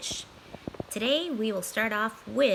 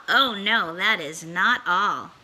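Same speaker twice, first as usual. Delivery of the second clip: sly cat; 3 semitones lower, 5 dB louder, slower than usual. Acted. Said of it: "cat's teasing aside".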